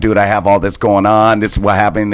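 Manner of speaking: plain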